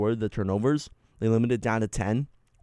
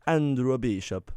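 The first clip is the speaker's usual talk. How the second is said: slow, mock Italian accent; slower than usual. Shown as a demonstration. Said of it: "I did it Italian that way".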